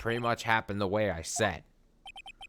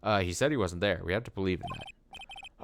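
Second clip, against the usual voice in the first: Phoenix voice; 2 semitones lower than usual. Acted. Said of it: "Oh, that's Phoenix".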